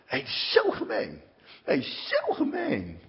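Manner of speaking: high, strained, near-crying wail; anguished. Real, not acted. Alone in his cell, wailing high in despair. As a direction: cry it out in pain.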